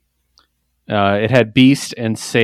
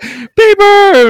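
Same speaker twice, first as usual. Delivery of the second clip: cheering greeting; 7 dB louder than usual. Retold or imitated. Crowd cheering Peeper.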